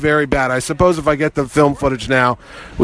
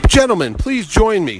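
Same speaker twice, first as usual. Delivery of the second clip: grand invitation, pitched higher; Adam West; 5 semitones higher than usual. Retold or imitated. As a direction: play the courteous host, hammed up. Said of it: "He goes".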